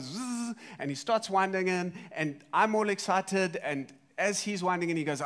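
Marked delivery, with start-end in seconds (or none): 0.0-0.5 buzzing fishing-line zip; imitated reel whirr. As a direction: make the sound of line running off a reel. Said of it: "one of his rods goes".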